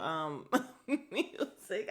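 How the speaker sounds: laughter interrupting the word; cracking up. Real, not acted. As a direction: try to say it while laughing. Cracks up at the music change.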